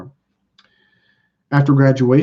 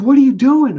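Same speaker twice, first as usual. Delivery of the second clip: high, louder incredulous call as the friend; 11 semitones higher, 7 dB louder than usual. Retold or imitated. Friend to Mike running to class, high incredulous call. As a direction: retell the buddy's puzzled shout across campus.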